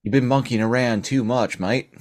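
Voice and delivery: lightly put-on Australian accent; Australian polar bear. Polar bear telling off a monkey, Australian accent. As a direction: scold them in mock Australian. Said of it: "leaning into my Australian polar bear".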